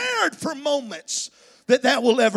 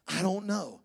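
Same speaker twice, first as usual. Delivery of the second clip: softer mumbled mock answer; 8 semitones lower, 8 dB quieter than usual. Spouse answer repeated.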